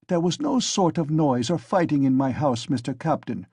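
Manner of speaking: a hint of a German landlady, pattering out; German-accented woman pleading with the captain; light German accent. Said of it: "she pattered all at once, like peas dropping".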